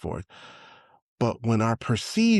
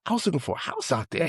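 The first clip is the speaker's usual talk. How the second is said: higher, fast and eager; excited retelling; 8 semitones higher, faster than usual. Retold or imitated. Friend telling of his house hunt, fast and higher. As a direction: rattle it off quickly, higher up. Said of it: "he was like".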